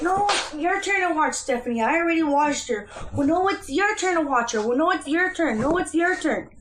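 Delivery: mother retelling a babysitting quarrel with her partner, mock bickering; mock squabble. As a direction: playfully act out a spat over babysitting. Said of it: "sometimes I'll be like".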